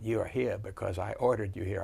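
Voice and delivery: a hint of a soft-spoken Virginia general; soft Virginia accent. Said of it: "he had that soft Virginia accent".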